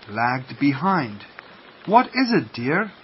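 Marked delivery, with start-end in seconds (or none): 1.9-2.9 gentle question, starting high; gentle asking. A narrator's reading. Mother duck asking her lagging duckling, gently. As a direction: coax kindly with a lilting question. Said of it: "asked Mother gently".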